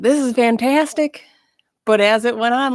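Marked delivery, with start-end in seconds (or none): 0.0-1.2 mock enthusiastic. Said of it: "the first two days was like".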